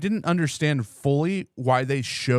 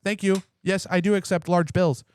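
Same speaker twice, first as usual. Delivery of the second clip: higher, lightly voiced grateful doll; complimenting sex doll; 5 semitones higher than usual. Sex doll accepting payment from its owner, politely grateful. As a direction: pretend doll thanking a customer. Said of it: "mine would just be throwing out compliments".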